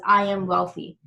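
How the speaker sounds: "wealthy" falling at the end, firm; command tonality. Shown as a demonstration. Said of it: "using a command tonality".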